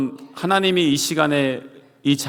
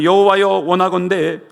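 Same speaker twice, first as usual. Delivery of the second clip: raised, pleading cry to God; Jonah's despairing plea; 5 semitones higher, 4 dB louder than usual. Retold or imitated. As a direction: beg to die, hammed-up. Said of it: "막 그러고 있습니다". (죽고 싶다고 절규하는 요나)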